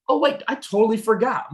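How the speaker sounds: high-pitched, acted afterthought; sudden remembering tone. Shown as a demonstration. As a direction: play it as if it just slipped your mind. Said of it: "The tone lets you get away with that".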